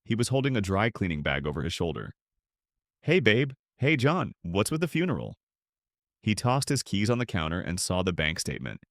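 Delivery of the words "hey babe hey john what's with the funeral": swagger in like nothing's wrong; breezy greeting. Acted. Mark breezes in whistling.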